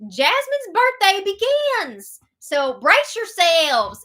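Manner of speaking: high, loud, stretched-out fanfare; drawn-out, hammed-up party hype; hyped-up announcement. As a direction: announce it like the big event. Hypes up the coming birthday party.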